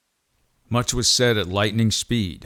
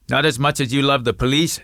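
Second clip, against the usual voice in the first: snapping; 5 semitones higher, 3 dB louder than usual. Acted. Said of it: "snapped back Mamadou".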